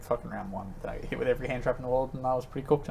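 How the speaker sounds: whisper. Pretend. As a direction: drop to a whisper as asked.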